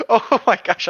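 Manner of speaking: excited. Real, not acted. Excited recall.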